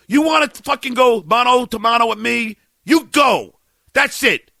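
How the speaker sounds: roaring at him, high and loud, slow and deliberate; furious shouting. Real, not acted. Host screaming at a rival comic for mocking his kids, furious yelling. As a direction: let the rage explode, every word hammered. Raging at Anthony over kids.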